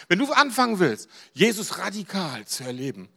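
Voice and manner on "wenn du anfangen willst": ordinary talk, nothing marked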